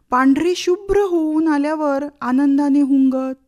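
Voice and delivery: plaintive verse recital, lightly voiced child; measured, expressive poem reading with repeated lines; poem recitation as a pleading child. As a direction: recite it as a child explaining to mother.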